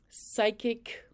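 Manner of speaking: a secretive whisper; whispered word. Real, not acted. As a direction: breathe psychic as a whisper. Savouring list of gifts.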